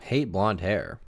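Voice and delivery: drawn out, falling; musing over the phrase; slow repeat. Shown as a demonstration. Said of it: "He would always tell me he hated blonde hair".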